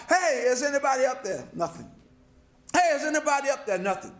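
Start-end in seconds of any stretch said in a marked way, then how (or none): 0.1-1.5 mildly voiced call for help. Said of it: "So he began to cry". 2.9-3.8 higher-pitched call for help. Acted. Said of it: "So he began to cry".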